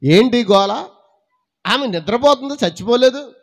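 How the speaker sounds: rising from a brisk question to a loud declaration; Jesus rebuking mourners. Retold or imitated. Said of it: "ఆయన అన్నాడు".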